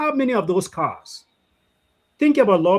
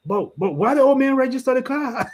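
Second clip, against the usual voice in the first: laughing quote; 5 semitones higher than usual. Retold or imitated. Mocking the officer's question.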